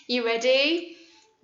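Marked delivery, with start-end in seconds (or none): 1.4-1.4 thrown voice sound. Shown as a demonstration. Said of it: "I threw my voice at you".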